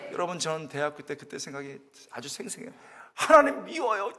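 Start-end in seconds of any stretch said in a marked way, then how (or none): 3.1-4.1 high, loud whiny outburst; petulant cry, higher and louder; childish complaint. Retold or imitated. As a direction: whine at God like an upset student. Retelling own angry prayer.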